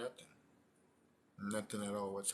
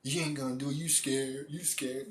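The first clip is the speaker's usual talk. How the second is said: lively mock goading, pitched up toward the end; imitated egging-on. Friend daring him to go through with it, mock goading. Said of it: "That's what the dude was saying".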